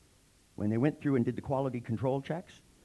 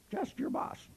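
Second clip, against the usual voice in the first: a breathy, secret whisper; hushed foreman's whisper; 14 semitones higher, 4 dB quieter, slower than usual. Retold or imitated. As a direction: lean in and whisper it like a threat. New foreman introducing himself to workers.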